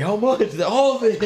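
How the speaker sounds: loud, high mock excitement; hammed-up squeaky yell; worked up. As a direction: act out two hyped-up friends shouting. Acting excited exchange over the hit.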